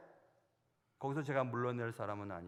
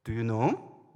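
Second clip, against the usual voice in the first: put-on defiant girl in English; 5 semitones lower, 8 dB louder, much slower than usual. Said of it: "영어로".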